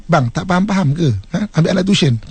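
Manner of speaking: a touch of exasperated scolding; mock impatient nag; wife snaps at husband, lightly acted; nagging tone. Shown as a demonstration. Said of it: "Itu dah jadi lain".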